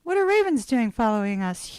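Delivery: a very high, loud squeal of surprise on Oh, then settling; imitating son. Son spotting the ravens behind the car, high surprised squeal. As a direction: squeak it out like an amazed kid. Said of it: "and he goes".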